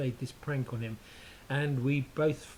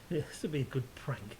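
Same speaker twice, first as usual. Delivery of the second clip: whispering; 6 dB quieter than usual. Retold or imitated. Retelling a sneaky plan.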